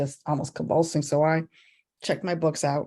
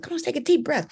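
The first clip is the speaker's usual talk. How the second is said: put-on coaxing a child; 10 semitones higher than usual.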